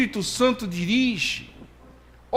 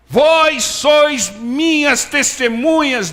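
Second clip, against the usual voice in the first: high, loud, very slow proclamation; voicing God's words to the congregation; solemn quote of God; 8 semitones higher, 5 dB louder, much slower than usual. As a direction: proclaim the Lord's words grandly. Quoting the Lord over music.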